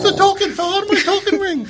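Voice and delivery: action movie hero. Pretend. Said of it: "nineties action movie".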